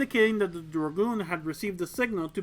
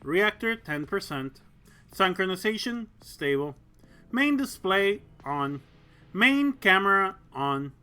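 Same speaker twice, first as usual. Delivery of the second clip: put-on old speech synthesizer; 2 semitones higher than usual. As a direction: speak like an automated cockpit system. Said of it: "that's computer voice".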